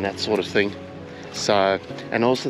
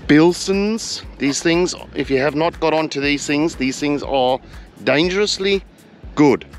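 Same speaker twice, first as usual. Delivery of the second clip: higher and louder, selling it hard; excited; 4 semitones higher, 3 dB louder, slower than usual. Real, not acted. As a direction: hype up the drink. Enthusing over the drinks.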